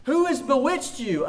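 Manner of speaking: a hint of an apostle's indignant reproach; Paul's rebuke. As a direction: read it as Paul's stern rebuke, lifted high. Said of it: "He says".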